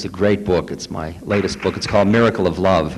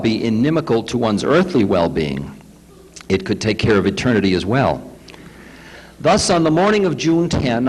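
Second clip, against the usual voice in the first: lightly raised reading voice, measured and clear; reading aloud; 3 semitones higher than usual. Acted. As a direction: read the passage to the group with care. Reads a book passage aloud.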